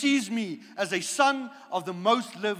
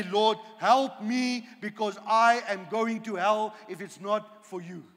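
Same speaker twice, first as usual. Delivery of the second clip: humble repentant prayer. Acted. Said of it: "My attitude is every day".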